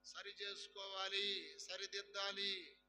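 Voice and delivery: "సరి చేసుకోవాలి" drawn out slowly, each word spaced; slow call-out. Shown as a demonstration. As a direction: lead the congregation in saying "సరి చేసుకోవాలి" slowly. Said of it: "చేతులు పైకెత్తి గట్టిగా చెప్పండి".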